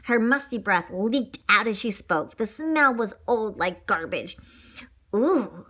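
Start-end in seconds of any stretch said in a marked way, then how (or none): 5.1-5.6 gasp. Acted. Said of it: "Sizzle gasped".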